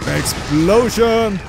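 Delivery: hammed-up announcement. Gamer hamming up a bomb.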